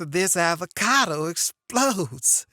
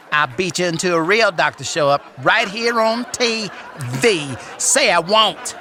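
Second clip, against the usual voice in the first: sassy grandma voice; 2 semitones higher, 5 dB louder than usual. Acted. Plays Medea character.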